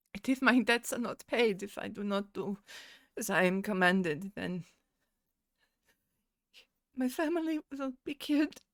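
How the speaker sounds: speaking while crying hard, heavy sobbing through words. A narrator voices a woman character in a roleplaying story, crying heavily. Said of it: "she's crying uh quite heavily".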